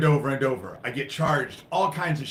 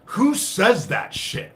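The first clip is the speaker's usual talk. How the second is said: outraged question; 5 semitones higher, slower than usual. Real, not acted. Outraged at neighbor.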